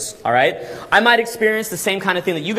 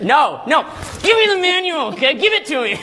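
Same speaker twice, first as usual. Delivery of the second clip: forceful demand; 9 semitones higher than usual. Pretend. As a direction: demand it boldly. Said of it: "that's how you wanna be".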